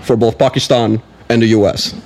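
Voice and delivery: a hint of a statesman with filler pauses; Obama. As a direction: answer like a measured president at a press conference. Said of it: "thought he was sitting right next".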